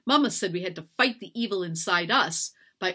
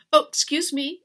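startled apology; 10 semitones higher, 8 dB louder than usual. A narrator's reading. Hannah walks in on beating.

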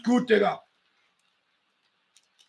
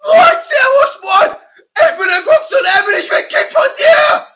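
mock shout; 3 semitones higher, 3 dB louder than usual.

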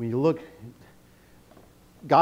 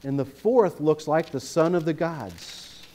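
slow and louder, a mild astonished king; amazed exclamation; 4 semitones higher, 4 dB louder, slower than usual. Retold or imitated. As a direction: read the king's cry of wonder, drawn out. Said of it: "Nebuchadnezzar exclaims".

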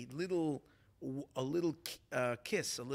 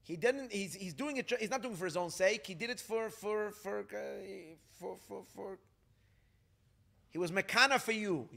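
crying out; 5 semitones higher than usual. Retold or imitated. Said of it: "I yelled and I cried out".

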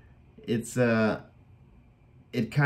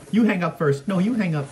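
giggly late night call; 7 semitones higher, 3 dB louder than usual. Retold or imitated. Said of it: "It reminds me when I don't wanna hang up with my girlfriend".

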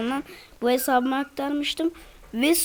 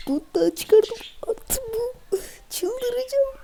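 going crazy; 11 semitones higher, slower than usual. Real, not acted. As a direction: voice climbing into a high squeal. (giderek tizleşen heyecanlı ses)

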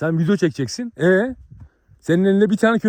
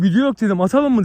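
raised taunting call; retold loud challenge; 3 semitones higher, 4 dB louder than usual. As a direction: push him to fight now.

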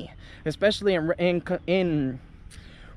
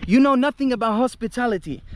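a retold, raised rant at the waiter; imitating an angry customer; 5 semitones higher, 4 dB louder than usual. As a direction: tear into him, a little louder. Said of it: "starts going off on this guy".

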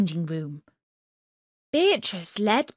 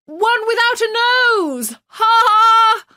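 high, bright joke-telling clown voice; joking jester voice; 14 semitones higher, 9 dB louder than usual. Acted. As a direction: tell the riddle like a cheeky jester.

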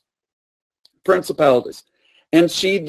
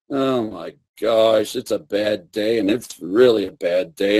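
much lower, moping self-pity; self-pitying gloom; 5 semitones lower than usual. Retold or imitated. Preacher voicing Elijah moping under the tree, low. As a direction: sink into a gloomy whine. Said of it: "he looks at himself and he goes".

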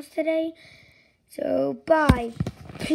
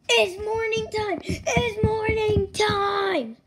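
excited; 4 semitones higher, slower than usual. Acted. Excited morning cry.

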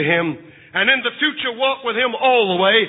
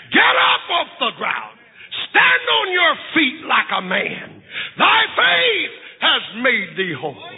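commanding shout; 4 semitones higher than usual. Acted. Christ commands the leper.

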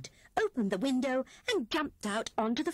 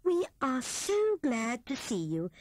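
glad cry; 5 semitones higher, slower than usual. A narrator's reading. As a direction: welcome the guest with delight. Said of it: "she cried".

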